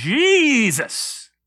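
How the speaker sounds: exaggerated, drawn-out, solemn stress on Jesus. Imitating how some people say the name to sound spiritual: exaggerated emphasis on 'jesus'. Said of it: "put even a little bit of an emphasis on it to make it sound a little more spiritual".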